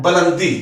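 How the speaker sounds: बुलंदी said as "belandi" with a short neutral first vowel; बुलंदी with a short schwa after the b; correct pronunciation. Shown as a demonstration. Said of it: "इसका दुरुस्त तलफ़ुज़ है".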